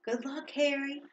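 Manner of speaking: muttered. A narrator's reading. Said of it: "he muttered".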